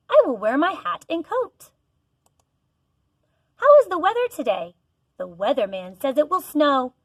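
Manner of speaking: clear, sing-song picture book read-aloud; reading to children. Acted. Teacher reading a weather book to her class, sing-song.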